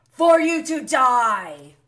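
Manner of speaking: loud, drawn-out retort; heated reenactment. Retold or imitated. Fan mimicking her cutting comeback, heated. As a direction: throw it out slow and loud.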